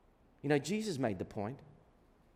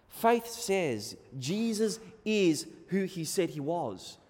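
ordinary delivery

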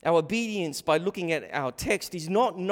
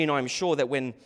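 ordinary delivery

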